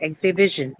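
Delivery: "Exhibition" with the beat on BI; stress on BI. Shown as a demonstration. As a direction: stress the third syllable of "Exhibition": ex-hi-BI-tion. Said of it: "So B".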